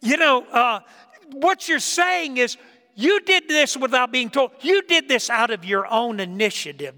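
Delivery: hammed-up disbelieving parent praising the kid; amazed parent. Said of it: "You'd look at him and say".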